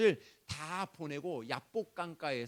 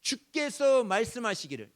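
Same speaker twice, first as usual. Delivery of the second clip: 크게 선포; 7 semitones higher, 7 dB louder than usual. Acted. 하나님의 말씀을 크게 선포.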